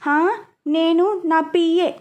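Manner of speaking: mock her with exaggerated patience; dry teasing sarcasm; sarcastic. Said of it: "వెటకారంగా".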